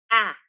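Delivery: breathed h, then vowel, then t for "At"; slow letter-by-letter "At"; sounding out. Shown as a demonstration. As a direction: sound out "At" as separate phonemes of "hat". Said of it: "now we can read it again".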